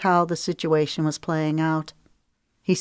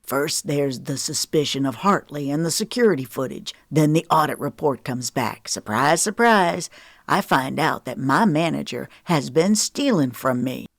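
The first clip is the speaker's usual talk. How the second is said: mild sarcastic edge. Acted. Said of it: "hard, sarcastic edge".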